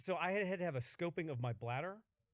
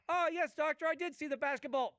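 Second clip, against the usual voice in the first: high, eager mock politeness; patient distracted by small talk, mock eager; 7 semitones higher than usual. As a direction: gush back at the doctor. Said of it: "you're like".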